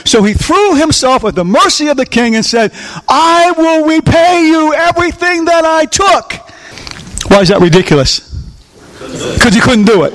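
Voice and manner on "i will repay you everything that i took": high, drawn-out pleading promise; desperate plea. Acted. Slave throws himself at the king's mercy, pleading high. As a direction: beg with a raised, insistent voice. Debtor begs the king for mercy.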